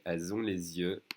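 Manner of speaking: Elles ont les yeux linked with Z sounds; obligatory liaison. Shown as a demonstration. Teacher showing a compulsory link, liaison. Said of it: "a liaison here that we have to make".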